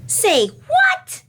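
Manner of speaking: very high sharp mock growl; a hammed-up bully's bark. A narrator's reading. Reading Mean Jean's threat to Katie Sue, growled. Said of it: "she growled".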